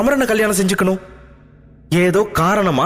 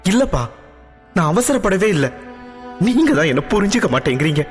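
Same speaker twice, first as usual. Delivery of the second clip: crying voice; 6 semitones higher, faster than usual. Acted. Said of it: "அழும் குரலில்".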